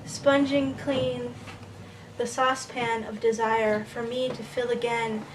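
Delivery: measured verse with pauses between phrases; deliberate poem recital; poetry reading. Acted. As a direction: recite slowly, letting each image stand. Reads poem In the Kitchen.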